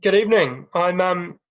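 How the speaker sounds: stuffy-nosed from a cold; blocked nose. Real, not acted. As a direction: talk through a blocked-up nose. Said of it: "you're sounding a little bit blocked up there".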